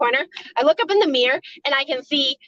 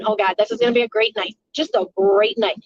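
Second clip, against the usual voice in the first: sarcastic dread; 5 semitones lower, faster than usual. Retold or imitated. Sarcastic inner thought, dreading night.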